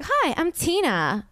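high, slow, drawn-out hello; imitated driver's greeting. Driver introducing herself to passengers, high drawn-out imitation. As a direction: mimic her high-pitched introduction.

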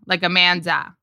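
lightly voiced Valley girl saying Amanda; Valley girl accent. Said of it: "sort of like a Valley girl saying Amanda".

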